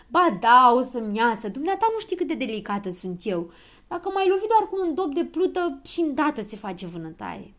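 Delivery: loud, insistent complaint with high bursts; fussy protest. A narrator's reading. Delicate girl arguing with the boy who hit her, protesting. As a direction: insist on how delicate you are.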